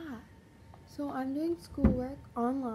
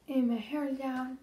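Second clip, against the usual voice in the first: weird voice. Real, not acted. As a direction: voice catching in the throat. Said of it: "my voice is weird".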